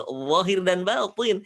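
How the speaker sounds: slow zahir with a thick first sound; heavy zahir. Shown as a demonstration. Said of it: "Yang aslinya zahir".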